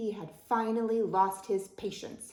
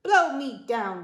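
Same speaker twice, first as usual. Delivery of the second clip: loud, slow, higher-pitched bellow; pirate bellow; 4 semitones higher, 9 dB louder, slower than usual. A narrator's reading. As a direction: bellow it like an outraged pirate captain. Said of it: "bellowed Pete".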